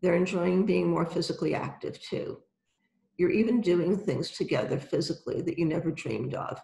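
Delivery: calm guided visualization, unhurried; right in your ear. Acted. Guided visualization with eyes closed.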